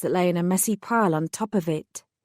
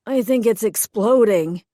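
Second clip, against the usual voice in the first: moaning; 2 semitones higher, 5 dB louder than usual. Acted. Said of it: "he moaned".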